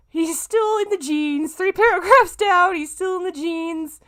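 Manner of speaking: high, loud, stressing still in disbelief; exasperated, can't believe it. Real, not acted. Exasperated reading of the fanfic.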